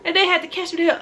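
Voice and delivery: high, loud, excited recounting; animated storytelling. Real, not acted. New mother telling how she fell, animated. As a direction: push pitch and volume way up. Animated retelling of falling over.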